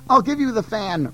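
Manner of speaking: moaning. Acted. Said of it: "Rakshasi moaned".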